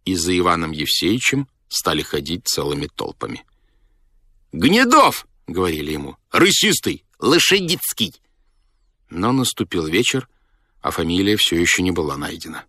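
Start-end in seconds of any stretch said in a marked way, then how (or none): 4.5-5.3 high-pitched calling out; high, excited shout of a name; eager guess. A narrator's reading. 6.3-8.1 high-pitched calling out; raised, excited voice from the crowd; eager guesses. A narrator's reading.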